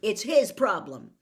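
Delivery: put-on sulky boy insisting it isn't his fault; stubbornly. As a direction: dig your heels in and say it hard. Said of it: "Harry said stubbornly".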